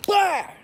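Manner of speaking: sudden loud, high "bah"; abrupt mock impact shout; imitated punch noise. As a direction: explode out of the calm like a punch landing. Imitates cop's sudden punch in story.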